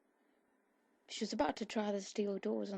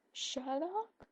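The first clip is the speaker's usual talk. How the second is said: high, rising call, panic creeping in; bellow; 7 semitones higher than usual. A narrator's reading. Jane bellows for Sherlock in panic, high rising call. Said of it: "she bellows".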